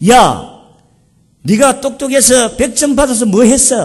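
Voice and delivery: loud, high-pitched, angry snapping tone.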